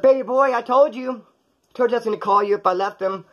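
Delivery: a lightly voiced eager woman; mock flirty woman. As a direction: play her, high and pleased. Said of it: "She said".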